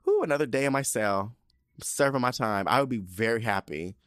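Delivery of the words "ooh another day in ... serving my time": lightly acted delight; mock-cheerful, a little raised; excited. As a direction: relish it like a happy prisoner. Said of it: "I'd be so excited".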